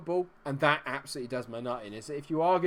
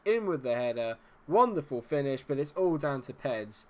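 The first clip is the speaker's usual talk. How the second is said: normal talking voice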